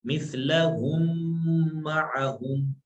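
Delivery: slow, drawn-out chanted recitation; Quranic recitation. Shown as a demonstration. Teacher recites a verse for the class, slow chant. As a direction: recite each word slowly for the students.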